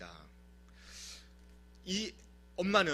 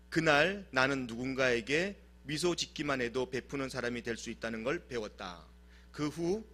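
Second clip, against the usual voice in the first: reading the letter; 4 semitones lower than usual. Retold or imitated. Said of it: "딸에게 보내는 편지, 바로 이렇게 이야기합니다".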